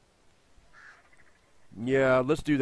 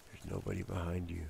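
hushed; 6 semitones lower, 13 dB quieter than usual. Acted. Sneaking, hushed reassurance.

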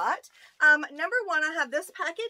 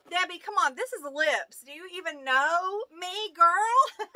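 mock indignation, higher and building louder into a laugh; joking protest; 4 semitones higher, 5 dB louder than usual. Vlogger teases her friend over the lips gift, mock indignant. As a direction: tease with a fake complaint, pitch climbing on girl. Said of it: "No, I'm just kidding".

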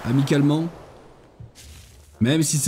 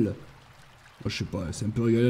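unvoiced, fast whispered aside; 4 semitones lower, 7 dB quieter than usual. Real, not acted. Streamer whispering aside while looting, fast. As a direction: mutter it to yourself quickly.

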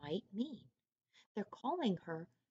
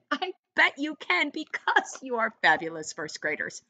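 enthusiastic praise; 6 semitones higher, 8 dB louder than usual. Real, not acted. Teacher praising first graders.

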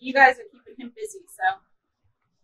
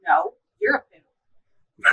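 slow drawn-out punchline; 4 semitones higher, much slower than usual. Acted. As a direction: stretch every word out slowly.

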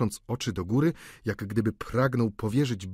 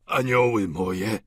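slow, loud exclamation; adoring old father; 5 dB louder, slower than usual. A narrator's reading. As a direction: cry out to beloved daughters. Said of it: "zawołał ojciec Gorio".

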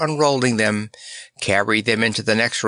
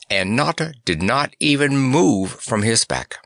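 plain reading voice

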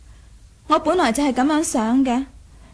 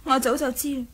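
quiet admission; 6 dB quieter than usual. Acted. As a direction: let it slip out softly, almost to herself. She admits quietly she knew.

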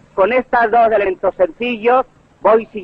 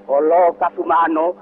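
drawn-out, deliberate delivery; slow down gradually, as if setting something down gently; slow careful landing. Acted. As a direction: stretch each phrase with great caution. Mimics orator's slow, careful landing.

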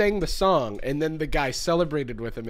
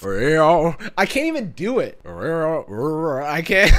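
failed country voice; 7 dB louder, much slower than usual. Pretend. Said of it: "how do you get the country voice".

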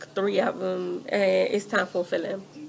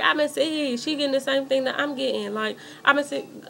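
higher-pitched indignant complaint, not shouted; retold pissed off; 4 semitones higher than usual. Customer kept waiting while another gets served, mildly pissed-off retelling. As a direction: replay your annoyance at being skipped. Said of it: "I was pissed off".

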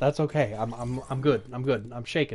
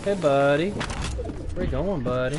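taunting singsong; slower than usual. Acted. Taunting enemy in game.

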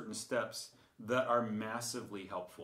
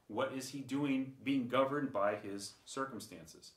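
ordinary delivery

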